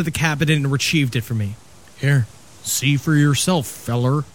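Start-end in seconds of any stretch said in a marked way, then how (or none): 2.0-4.2 put-on Maine accent. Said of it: "That horrible accent".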